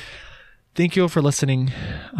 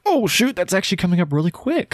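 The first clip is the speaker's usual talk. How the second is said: mock alarm; 5 semitones higher than usual. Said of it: "But I'm like".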